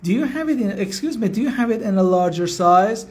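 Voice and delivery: slow, polite English request to the shop assistant; slow role-play request. Shown as a demonstration. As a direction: ask the clerk slowly and clearly. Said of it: "میگی که".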